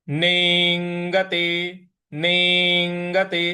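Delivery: नेंगते with a clear push on the अंग part, full ग after it; stress on अंग. Shown as a demonstration. Teacher showing students how to stress नेंगते. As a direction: lean on अंग in नेंगते, slowly. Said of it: "अंग पे हमको आघात भी देना है".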